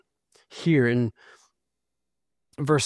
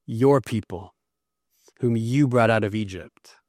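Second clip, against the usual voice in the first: Your and you lowered and leaned on; stress on Your and you; 3 semitones lower than usual. Shown as a demonstration. Preacher stressing whose people they are, leaning on Your. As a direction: point hard at Your and you. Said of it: "it's like this language shifts".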